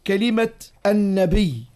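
slow, measured reading of the verse text; recited text. Shown as a demonstration. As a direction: read the line out slowly like a recited text. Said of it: "قال: "واضح".

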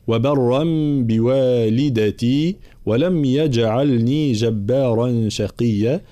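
slow recited verse; verse recitation. Shown as a demonstration.

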